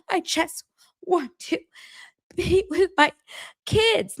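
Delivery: high, far-off whiny imitation; mock her pining whine; whiny mimic. Podcaster mimicking Meredith pining for her kids, high whine. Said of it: "And she's like".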